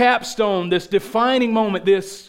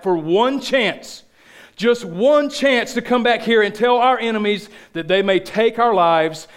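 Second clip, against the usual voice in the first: William Wallace; 3 semitones higher than usual. Acted. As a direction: swell towards a defiant climax. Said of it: "William Wallace says".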